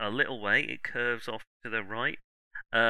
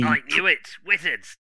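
stormtrooper voice; 5 dB louder than usual. Acted. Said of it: "says the stormtrooper".

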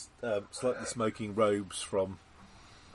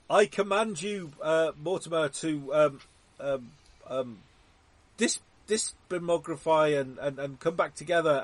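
commanding wizard; 4 semitones higher than usual. Pretend. Commanding Mortimer by spell.

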